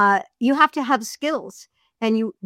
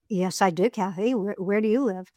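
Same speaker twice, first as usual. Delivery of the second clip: man's voice, Ken; 3 semitones lower, 5 dB quieter than usual. Shown as a demonstration. Narrator demos Ken answering Kathy, lower and softer. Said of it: "you have to change your voice".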